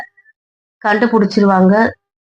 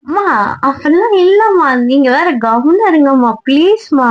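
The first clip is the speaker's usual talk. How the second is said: embarrassed protest; 5 semitones higher than usual. Acted. Daughter embarrassed by teasing mother.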